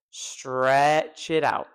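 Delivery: very slow "stretch" with a long, drawn vowel; elongated STREEETCH, then "it out". Shown as a demonstration. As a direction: drag the vowel in STRETCH right out.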